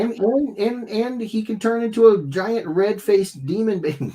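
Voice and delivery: joking that the baby turns into a demon, mock spooky; spooky joke voice. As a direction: ham it up like a horror trailer.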